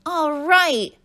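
high, loud whoop of delight; cheering. A narrator's reading. Pupil just turned back into a child, cheering. Maritza cheers at being restored.

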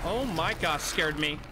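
loud startled gasp of words. Real, not acted. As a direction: blurt it out, jumpy and caught off guard. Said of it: "That actually kinda scared me".

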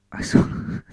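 real laugh breaking up the line; losing composure while reading; breaking into laughter. Real, not acted. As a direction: crack up partway through reading it. Cracks up while reading, restarts.

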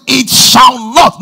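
slow, heavy "It shall not"; emphatic shall not. Shown as a demonstration. Preacher stressing the scripture for the church, slow and heavy. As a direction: lean on every word of "It shall not". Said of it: "for the emphasis".

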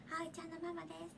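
softly imitated self-introduction, amused; tiny voice. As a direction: mimic a small, secretive voice through a giggle. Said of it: "めっちゃ小さい声でね". (小さい声を笑いながらまねて)

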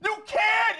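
exasperated. Real, not acted. Streamer demands answers from chat.

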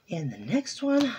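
slightly winded, slow phrase; short of breath while talking. Real, not acted. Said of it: "I'm running out of breath".

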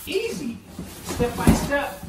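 high, labored lifting voice; straining with effort. Real, not acted. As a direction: grunt the words out under the load. Hauling a heavy boxed bed.

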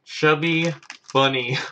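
words mushed by a mouthful of marshmallows; mouth full. Real, not acted. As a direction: talk through a mouth stuffed fuller and fuller. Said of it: "I gotta see how many marshmallows I can stick in my mouth".

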